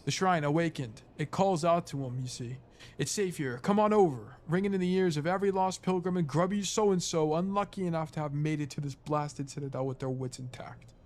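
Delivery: a hint of English accent, fading hushed at the end. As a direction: tell it like a grumbling English old-timer. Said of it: "an English accent".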